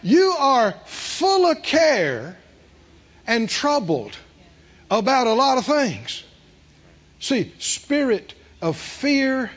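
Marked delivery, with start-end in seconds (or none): 0.0-6.2 gentle rebuke. Retold or imitated. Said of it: "when the Lord calls your name twice like that".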